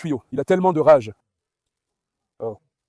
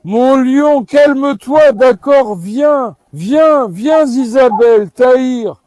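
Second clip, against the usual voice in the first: loud slow coaxing; 2 semitones higher, 3 dB louder, much slower than usual. Real, not acted.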